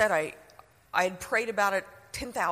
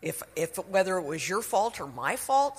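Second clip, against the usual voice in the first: sarcastic echo. Retold or imitated. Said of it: "that's an apology".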